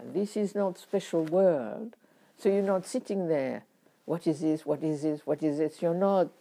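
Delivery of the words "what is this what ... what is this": repeated like a rote mantra; even, lowered rote repetition; mechanical reciting. Shown as a demonstration. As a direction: drone it as a recited formula. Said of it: "it's not like a, a reciting".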